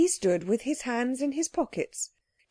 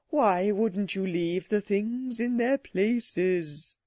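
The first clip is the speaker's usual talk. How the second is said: slow, indignant creature voice; furious. A narrator's reading. Psammead scolding over the trouble to come, mildly furious. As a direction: complain with restrained fury, stretching the words. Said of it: "The Psammead was furious".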